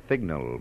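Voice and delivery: "signal" with a lisped S; mocking lisp. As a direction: mimic a lisper saying "signal", S turned to TH. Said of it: "The pronunciation is signal".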